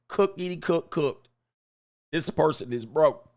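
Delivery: ordinary talk, nothing marked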